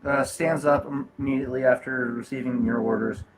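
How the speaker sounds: stiff polite robot voice. Acted. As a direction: speak as a dutiful droid. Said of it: "I was still in the robot voice".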